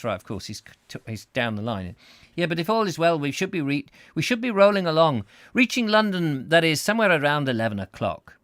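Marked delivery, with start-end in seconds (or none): 2.3-8.3 high put-on Scots gone astray; muddled Scottish accent. Husband down the line about London, botched Scottish accent. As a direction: attempt Scottish and let it drift. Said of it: "I don't know what accent that turned into".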